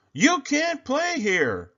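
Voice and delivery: high, slow, loud bully yell. A narrator's reading. Bully Sammy yelling at Kevin from the sandbox. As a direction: bark it at the intruder. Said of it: "Sammy yelled".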